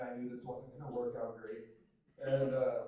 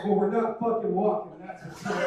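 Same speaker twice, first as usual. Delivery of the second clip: loud, raised mock refusal; emphatic, lightly acted retort; defiant turd; 5 semitones higher, 10 dB louder than usual. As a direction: play the stubborn one of the group. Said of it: "And the last one's like".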